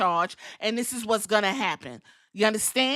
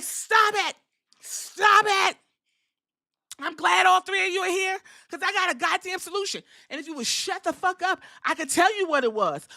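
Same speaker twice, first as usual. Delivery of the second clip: angry GM Adam Pearce laying down the law; stern boss voice; 4 semitones higher than usual. Retold or imitated. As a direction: boss them into silence. GM voice scolding wrestlers.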